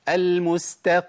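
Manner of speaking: المستقيم with the final م bounced and moved; bouncing mim demo. Shown as a demonstration. Teacher imitating people who bounce the م. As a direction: jolt the م of المستقيم. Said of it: "في ناس بتقلقلها".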